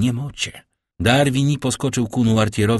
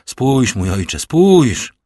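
pleading cry; 4 semitones higher, 6 dB louder, much slower than usual. Acted. Morel begs the old man.

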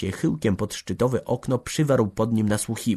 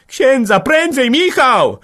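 high, loud cry for help; panicked full-voice summons; urgent shouting; 11 dB louder, slower than usual. A narrator's reading. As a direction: yell urgently for someone to run. Panicked call for priest to dying man.

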